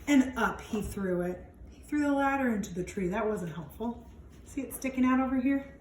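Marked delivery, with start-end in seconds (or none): 0.1-4.1 put-on lively read-aloud for young kids; expressive picture-book narration; storybook reading. A narrator's reading. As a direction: read it out like storytime for little ones. Reads picture book to children.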